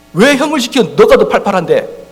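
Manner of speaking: high, loud, slow whine; child arguing with mum about errands, whiny; whining child. Retold or imitated. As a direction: complain like a sulky kid.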